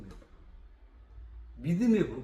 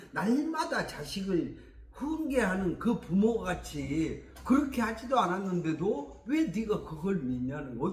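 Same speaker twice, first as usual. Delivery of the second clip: normal talking voice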